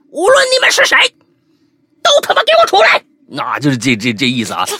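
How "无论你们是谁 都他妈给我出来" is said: very high, loud mock battle cry; hammed-up shout. Otaku colleague with wooden sword challenges hidden intruders, hammed-up shout. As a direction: squeal a theatrical challenge in a put-on high voice. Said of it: "对着整个房子开始大喊".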